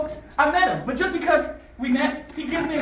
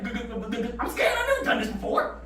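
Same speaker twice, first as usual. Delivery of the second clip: stuttering nervous. Retold or imitated. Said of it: "how nervous my voice was".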